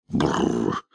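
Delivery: low shuddering brrr of disgust; a low, grossed-out shudder sound. Acted. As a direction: shiver out a revolted brrr. Disgusted at the creature.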